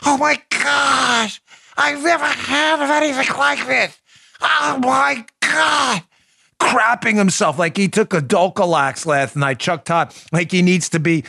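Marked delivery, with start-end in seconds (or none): 0.1-6.0 high, slow hammed-up beaver voice. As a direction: squeal it out slow as a cartoon beaver. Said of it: "Do you like my Beaver voice?".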